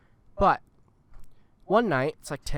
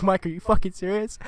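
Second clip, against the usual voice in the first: mock-indignant, pitched higher; retold exasperation; 4 semitones higher than usual. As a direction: challenge him in exaggerated disbelief. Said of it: "I get fucking mad about it".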